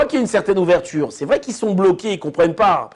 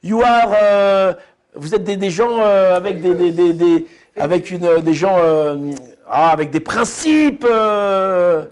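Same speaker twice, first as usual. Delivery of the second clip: gushing woman; slower than usual. Retold or imitated. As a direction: ham up the admiring stranger. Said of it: "Et la meuf, elle le voit". (dame enthousiaste, voix aiguë et lente)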